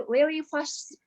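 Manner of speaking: ordinary talk, nothing marked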